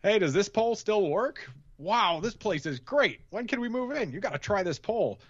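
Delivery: high, eager imitation of Stan; excited Stan. Quoting the firehouse scene, high eager Stan voice. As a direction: gush like a kid in a new house. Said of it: "Stan goes".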